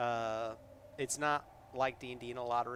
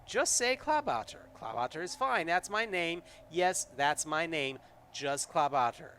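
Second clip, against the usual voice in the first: high, pleading little voice; pleading creature; 4 semitones higher, 5 dB louder than usual. Acted. Kobold pleading with the player to use his name. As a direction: beg them to just say the name. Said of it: "looks at you pleadingly".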